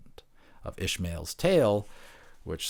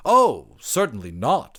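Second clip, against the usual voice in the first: sudden loud, higher "Oh"; flustered anthropologist; 6 semitones higher, 9 dB louder, slower than usual. Acted. Anthropologist hastily agreeing with the offended creature, flustered. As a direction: hurry to take it back.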